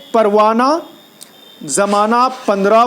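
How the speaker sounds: "پروانہ، زمانہ، پندرہ" ending on an open aa; silent final he. Shown as a demonstration. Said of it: "جس کا تلفظ ادا نہیں کیا جائے".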